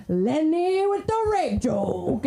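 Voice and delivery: high, drawn-out imitated cheer; dad's fan holler. Dad being introduced to Lenny, hollered fan greeting. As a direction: stretch it out like a starstruck dad.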